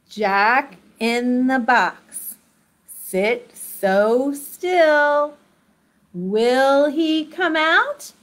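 slow hushed suspense; slow teasing suspense; suspenseful build. Shown as a demonstration. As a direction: stretch it out, keep them waiting. Jack-in-the-box suspense game.

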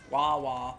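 drawn-out Pokemon noise; imitated wah wah. Naming a favorite Pokemon by its cry, imitated noise. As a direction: imitate the cry in two long wahs. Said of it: "The one that goes".

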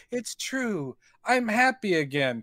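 mock earnest confession; lightly imitating a cheerful woman; lightly voiced heroine. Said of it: "She's like".

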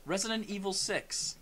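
slow, measured repeat; pointed restatement. Real, not acted. Restating the game title after bickering, slow and pointed. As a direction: spell it out slowly for someone not listening.

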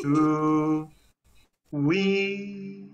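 weep pushed with effort; emphasis on weep. Shown as a demonstration. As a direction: put emphasis on the syllable weep. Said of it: "hace como un énfasis".

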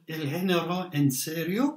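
El Género en Serio said in Spanish, Spanish vowels; Spanish pronunciation. Shown as a demonstration. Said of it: "excuse my Spanish accent".

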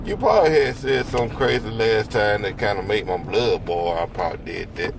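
talking through gauze; after wisdom teeth. Real, not acted. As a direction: numb mouth, doped up. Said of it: "you can't be doing that with your mouth".

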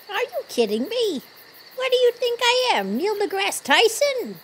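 offended disbelief, fast; scoff, are you serious; incredulous scoff. Acted. Scoffing at a cosmic question.

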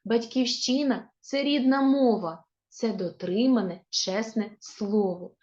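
put-on measured, expressive reading of a children's verse; poem recitation. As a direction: recite the poem line by line for schoolchildren. (виразне читання дитячого вірша)

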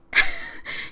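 a squeal of a laugh, breathy and high; real high-pitched giggle; high squeaky laugh. Real, not acted. Laughing at the sim's face.

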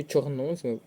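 чорнозем stressed on НО; чорнозем as чор-НО-зем; stress on second syllable. Shown as a demonstration. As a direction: lean on НО in чорнозем. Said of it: "наголос на другий склад".

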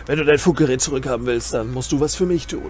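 lightly voiced cliché tough boss; mock the bossy stereotype, gently; cliché bossy leader. Streamer parodies the typical game boss, mock bossy. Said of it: "dieses Klischee von".

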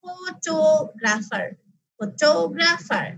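ফটোগ্রাফার very slow, টো drawn out; stress on second syllable. Shown as a demonstration. Teacher shows hand test, stressed টো in slow ফটোগ্রাফার. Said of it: "তোমার এই জায়গাটা তোমার হাতে লাগবে".

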